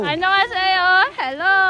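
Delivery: lightly put-on Korean-accented greeting. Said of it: "ituloy mo yung sinasabi mo in Korean accent".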